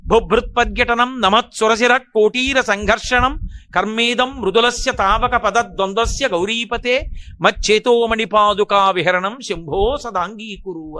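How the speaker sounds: slow, sustained chant-like recitation; Sanskrit verse recitation. Acted. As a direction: recite the hymn slowly, drawing out long syllables. (నెమ్మదిగా సంస్కృత శ్లోక పఠనం)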